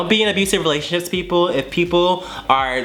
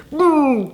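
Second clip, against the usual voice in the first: high hummed machine sound; imitated device noise; 11 semitones higher, 3 dB louder than usual. Storyteller describing CPR on ex, imitated device noise. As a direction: voice the medical gadget as a noise.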